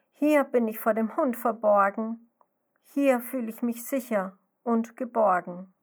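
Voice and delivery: sadly refuse, the fright turned to sorrow; sad call. Acted. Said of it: "Traurig ruft die Schnecke dem Grashüpfermädchen zu".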